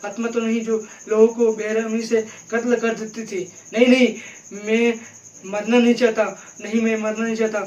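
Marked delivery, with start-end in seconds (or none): 3.7-7.6 loud frightened pleading; mock panic, louder; panicked crying plea. Shown as a demonstration. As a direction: beg not to die, voice rising in panic. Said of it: "घबरा कर मतलब ह-, रो रहा है".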